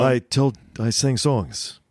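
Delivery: slow, drawn-out mock New York accent; playful New York accent send-up; Tony Curtis. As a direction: imitate an actor's thick New York accent. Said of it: "that New York accent".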